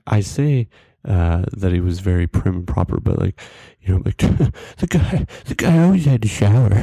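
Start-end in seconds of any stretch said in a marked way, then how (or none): 4.8-6.7 higher, tickled delivery breaking with laughter; amused laughing. Real, not acted. Joking about his prim friend, laughing. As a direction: laugh your way through the jab.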